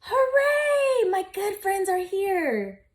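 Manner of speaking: cheer, then melt with relief; a touch of happy tears after the loud cheer; joyful cheer. Acted. Amos greets his friends.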